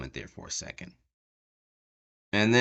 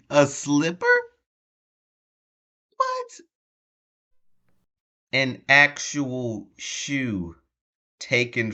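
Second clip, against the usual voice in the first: incredulous disbelief; 7 semitones higher, much slower than usual. Real, not acted. Incredulous at the slipper.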